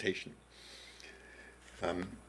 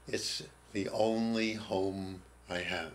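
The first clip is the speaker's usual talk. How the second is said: hushed plea; 2 semitones lower, 4 dB quieter, slower than usual. Retold or imitated. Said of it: "Makes me cry just thinking of it".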